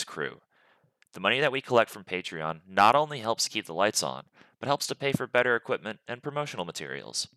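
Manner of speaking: brisk podcast ad read. Acted. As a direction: run through the sponsor plugs like an announcer. Podcast intro and sponsor read.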